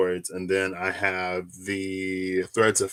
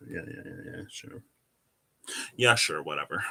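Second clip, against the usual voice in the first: lower, brushing it off: yeah, sure, whatever; mock dismissive; 4 semitones lower, 6 dB quieter than usual. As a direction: wave the phone assistant off as a joke. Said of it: "I'm just kidding".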